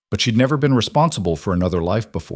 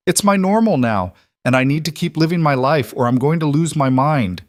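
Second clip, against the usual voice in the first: heated, high-pitched pushback; exasperated protest; 6 semitones higher than usual. Acted. Clara argues with her partner over being smothered, exasperated. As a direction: argue back, voice pushed up high.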